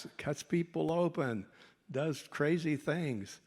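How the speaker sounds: mock his younger proud self, a touch pompous; cocky inner voice. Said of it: "I was thinking".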